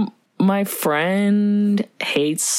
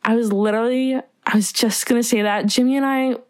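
lightly voiced bubbly actress, talking out of the side of the mouth; Drew Barrymore impression; 3 semitones higher than usual. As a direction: pull your mouth to one side and gush like a chatty film star. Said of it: "Let's hear it".

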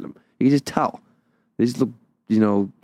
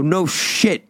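higher-pitched sarcastic comeback; retold exasperation; 8 semitones higher than usual. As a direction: throw back an irritated retort, acted out. Retold irritated retort to store clerk.

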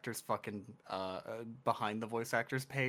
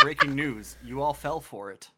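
mock news announcer; 7 dB louder than usual.

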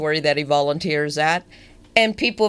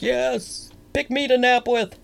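higher, lightly acted pleading cat; lightly voiced eager cat; 6 semitones higher than usual. Cats greeting their napping volunteer, lightly acted eager voice. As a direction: play a cat eager to be picked. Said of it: "'Cause they're like".

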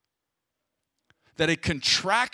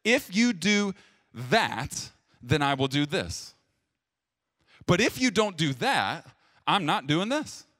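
a hint of a demanding spouse, a touch higher; bargaining spouse; 3 semitones higher than usual. Shown as a demonstration. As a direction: set conditions, lightly haggling. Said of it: "It sounds like this".

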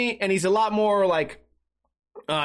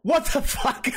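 mock outraged disbelief; 6 semitones higher, slower than usual. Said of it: "And I'm like".

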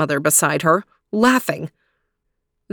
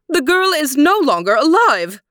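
angry queen; 9 semitones higher, 4 dB louder than usual. Acted. Queen raging at mirror.

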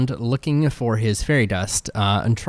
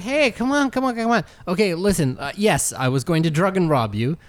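high nervous pleading voice; pleading goblin; 5 semitones higher than usual. Acted. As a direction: beg your way out, squeaky. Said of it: "He's like".

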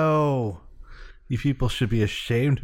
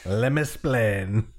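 Ricky Ricardo impression; slower than usual. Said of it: "Way to go, Ricky Ricardo".

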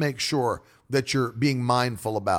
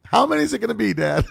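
put-on child asking; 7 semitones higher, 4 dB louder than usual. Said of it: "He'll be like".

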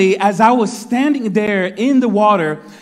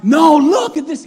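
insistent plea; 9 semitones higher, 3 dB louder than usual. Retold or imitated. Insisting to people who doubt him.

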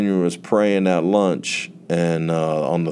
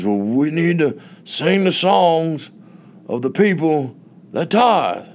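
a slow, high, pointed pastor's rebuke; old pastor turning down the youth leader, slow and high; stern pastor; 8 semitones higher than usual. Retold or imitated. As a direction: lay it down slowly, high, like a pastor's verdict. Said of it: "the way that he said it".

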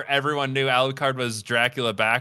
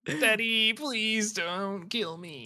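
mock pleading; 11 semitones higher, 3 dB quieter, much slower than usual. Son voiced pleading with his father.

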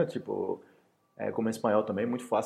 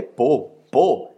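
protesting defense; 9 dB louder than usual. Retold or imitated. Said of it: "Eu não falei o-, a outra coisa".

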